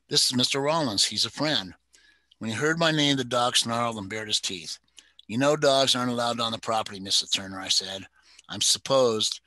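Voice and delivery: steady storyteller reading a crime novel; story narration. A narrator's reading. Reader sharing a favorite novel with listeners, narrating. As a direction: read the mystery aloud, even and measured. Reads novel excerpt aloud.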